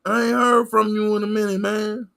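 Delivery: hammed-up delighted viewer calling out; mock excited fan. A streamer acting out how chat should greet him, in a high mock shout. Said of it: "y'all supposed to be like".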